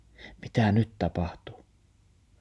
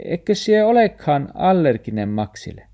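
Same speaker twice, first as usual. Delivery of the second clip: higher, louder hopeful asking; dog asking, higher and louder; hopeful dog question; 8 semitones higher, 6 dB louder than usual. Acted. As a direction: ask hoping it's true.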